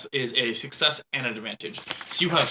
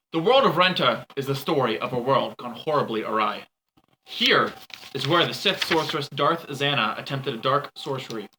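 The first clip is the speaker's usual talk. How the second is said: grave, measured scene setting; story narration; 2 semitones lower than usual. A narrator's reading. GM narrates the planet's history.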